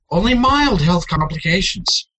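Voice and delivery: lightly voiced salesman pitch; upbeat sales-pitch disclaimer; mock ad voice.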